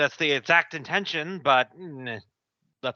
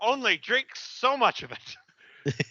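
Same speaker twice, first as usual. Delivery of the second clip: dopey orc voice; 11 semitones higher than usual. Pretend. Voicing the lead-drinking orc.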